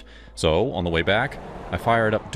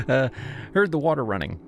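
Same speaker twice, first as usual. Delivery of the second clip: higher, sleazy grinning voice; creepy delivery guy; 6 semitones higher than usual. Acted. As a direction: play him smug and off-kilter.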